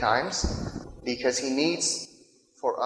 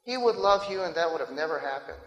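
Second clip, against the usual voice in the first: blaming pastor; 3 semitones higher than usual. Acted. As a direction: lightly act out a pastor laying the blame on a wife. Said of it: "the pastor said".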